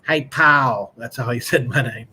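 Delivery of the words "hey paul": put-on country accent. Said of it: "my dad had a real thick country accent".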